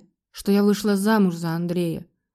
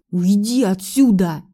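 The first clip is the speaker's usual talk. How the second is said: slow, louder growl; growled order; 4 dB louder, slower than usual. A narrator's reading. Husband growls at wife to leave, angry. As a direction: snarl her out of the room. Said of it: "зарычал на меня муж".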